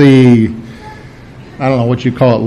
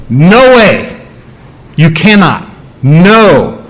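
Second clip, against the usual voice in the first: forceful refusal; much slower than usual. Retold or imitated. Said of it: "It's very emphatic, very strong, very forceful".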